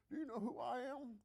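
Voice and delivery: Bill Clinton impression. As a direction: puff up like a famous politician expecting recognition. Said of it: "That's my Bill Clinton impersonation".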